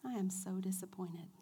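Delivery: soft hissing whisper of disappointment; whispered accusation. Retold or imitated. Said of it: "he will turn around and say".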